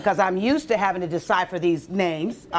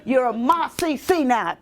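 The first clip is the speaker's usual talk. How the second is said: put-on old man's voice; 4 semitones higher, slower than usual. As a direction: voice the old doctor, drawn out. Old man calls her Ma C C.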